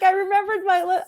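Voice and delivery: hammed-up proud self-praise; proud cheer. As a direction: crow about a small win. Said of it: "I was like".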